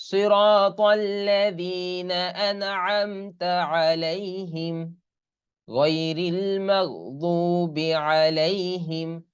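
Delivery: slow, drawn-out Quranic chant with long vowels; Quran recitation. Shown as a demonstration. Teacher models the verse for students, slow tajweed chant. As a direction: chant it slowly like tilawat. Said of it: "teacher recites Fatiha verse".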